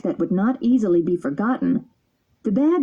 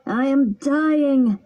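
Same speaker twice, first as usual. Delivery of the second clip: frightened cry; 5 semitones higher, much slower than usual. Acted. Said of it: "turned as white as a sheet and shouted".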